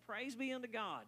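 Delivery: high, bright praise; joyful praise. Retold or imitated. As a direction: proclaim it with joy. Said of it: "you know what I say".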